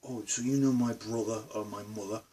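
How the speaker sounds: imitated northern English accent. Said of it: "when some of the northerners talk".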